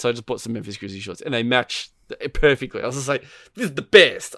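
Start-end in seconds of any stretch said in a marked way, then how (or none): 3.5-4.3 mock delight. Thrilled at matching outfit.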